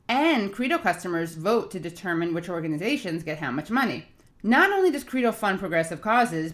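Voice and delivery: upbeat sponsor read, steady and clear. Acted. Host reading a sponsor ad to listeners, upbeat ad read. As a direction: sell the phone plan like a radio spot.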